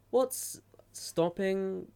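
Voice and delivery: burp pushed through the words. Real, not acted. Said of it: "Burp again".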